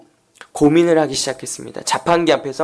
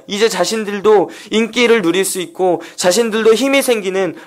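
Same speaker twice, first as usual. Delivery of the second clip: higher-pitched, driving sermon delivery; fervent preaching; 6 semitones higher, 4 dB louder than usual. Acted. Preacher tells of disciples thrilled by the crowds, fervent preaching. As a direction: build up the disciples' excitement, urgently.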